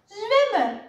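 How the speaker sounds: high, loud cry to swim; high-pitched shouted command; urgent shout. A narrator's reading. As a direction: shout the order in alarm. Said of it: "riep Lodewijk".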